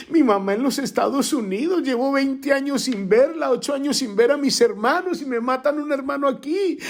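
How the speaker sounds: high, strained begging voice; pleading with God. Retold or imitated. Grieving son pleading with God to be understood, high and strained. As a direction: beg the Lord to understand, near tears.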